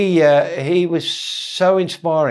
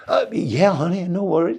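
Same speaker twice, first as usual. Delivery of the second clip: higher-voiced American operator accent; imitated American accent; 4 semitones higher than usual. Operator answering the collect call, imitated American accent. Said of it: "the accent to these guys".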